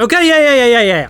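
high, loud rush of agreement; eager Carl. Acted. Carl promising cast he'll learn French, eager high agreement. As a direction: pile up the promises, high and hurried.

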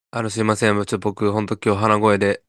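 stuffy nose from a cold; blocked nose, talking through it; nasal voice. Real, not acted.

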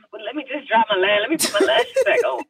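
climbing into a high mock sob; mock tearful plea. Heartbroken actress before a happy scene, mock tearful plea. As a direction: imitate stalling through tears.

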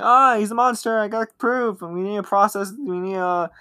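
high, rushed alarm; panicked girl. Retold or imitated. Girl telling her parents about the monster, high panic.

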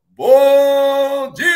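high, bright loud hello; loud cheerful greeting. Real, not acted. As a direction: belt out a big good morning.

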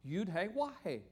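"Yud He Wah He" with a W in "Wah"; Hebrew letter names. Shown as a demonstration. Teacher showing where Yahweh comes from, pronunciation demonstration. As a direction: sound out "Yud He Wah He" so the name peeks through. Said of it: "You can kinda hear that".

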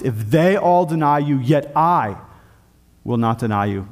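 measured stress on THEY and I; emphatic promise. Retold or imitated. Preacher quotes Peter's promise to Christ, understated emphatic. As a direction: weigh THEY against I, pausing after I. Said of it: "emphatic, first-person promise".

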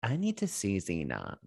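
low, soft imitated officer; military man. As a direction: drop the pitch for a stern order. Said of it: "military man comes in and is like".

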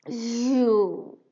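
loud startled "You!"; loud king's cry of recognition; shocked exclamation. Acted. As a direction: bark it out in shock. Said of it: "he exclaimed".

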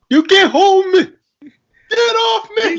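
high, loud yelling outburst; shouting. Acted. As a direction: yell it like you're being held. Acted movie line, yelling.

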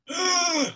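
high, falling gasp; dismayed gasp. Real, not acted. Player hearing Buckeyes suggested, dismayed gasp.

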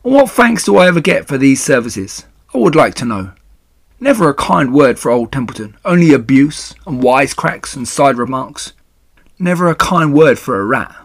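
self-pitying rat, lightly voiced and emphatic; Templeton, aggrieved. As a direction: grumble about thankless service.

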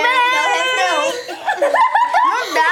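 stifled giggles. Real, not acted. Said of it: "gente, para de rir".

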